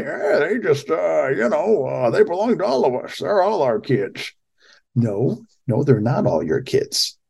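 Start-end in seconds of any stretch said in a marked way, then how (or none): 0.0-4.3 high, mocking old politician voice; Joe Biden impression. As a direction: pitch it way up and mock a dithering politician. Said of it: "I tend to use that voice for everybody".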